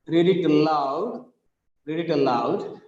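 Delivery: "aloud" with its second syllable stressed. Shown as a demonstration. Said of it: "the second syllable is stressed".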